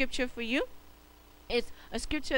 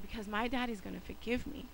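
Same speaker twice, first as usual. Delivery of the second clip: put-on quiet trusting boy; 6 dB quieter than usual. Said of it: "he was like".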